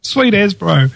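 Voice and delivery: slow, high kiwi drawl on the first words; lightly voiced laid-back kiwi bloke; broad kiwi accent. Kiwi slang impression.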